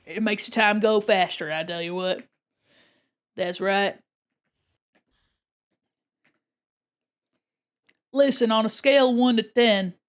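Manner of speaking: lightly voiced Southern fisherman, hearty advice. Plays Southern fisherman giving advice.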